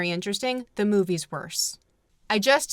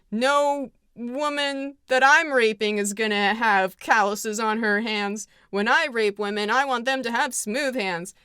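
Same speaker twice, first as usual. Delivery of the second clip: mock Clark Gable. Clark Gable about her hands, a hint of smug mockery. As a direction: sneer it as a mocking caricature. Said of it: "He's like".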